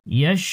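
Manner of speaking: ইয়াশ with a long, clear sh; well-articulated shin. Shown as a demonstration. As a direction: sustain a clean hushing sh at the end of ইয়াশ. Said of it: "শিনের উচ্চারণ সুন্দর করতে হবে".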